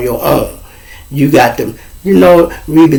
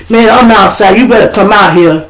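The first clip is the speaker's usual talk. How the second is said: bully calling out; 6 semitones higher, 5 dB louder than usual. Retold or imitated.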